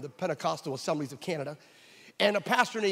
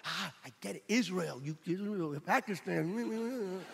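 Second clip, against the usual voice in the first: realizing; 7 dB quieter, slower than usual. Retold or imitated. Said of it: "John and I go".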